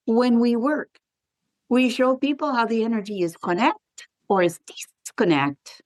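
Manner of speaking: put-on affectionately mangled Puerto Rican accent; mock Puerto Rican English, done for effect; imitated Puerto Rican accent. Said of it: "we don't hear people speaking in that accent".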